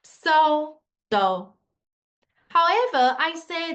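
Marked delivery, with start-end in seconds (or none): 0.0-1.5 falling fourth tone. Shown as a demonstration. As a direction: slide from so down to do. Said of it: "from so and going down".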